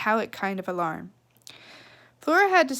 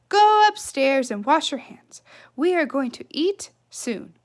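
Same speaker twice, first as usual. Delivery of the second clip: louder, higher, brisk order; commanding mother; 4 semitones higher, 4 dB louder than usual. Acted. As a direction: send the child off.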